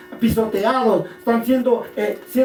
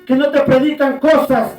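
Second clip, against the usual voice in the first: raised preacher's delivery in short bursts; emphatic preaching; 3 semitones higher, 4 dB louder than usual. Real, not acted. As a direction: press each phrase on the congregation. Keeps preaching to congregation. (prédica enfática, con pausas)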